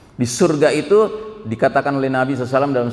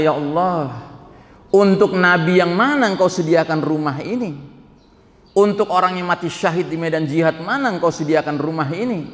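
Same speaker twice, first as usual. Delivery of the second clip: amazed question; 4 semitones higher than usual. Acted. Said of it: "saking bingungnya dia melihat itu".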